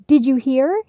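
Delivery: Penny rushing in with news, squeaking. Acted. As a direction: squeak it like an excited mouse. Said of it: "she squeaked".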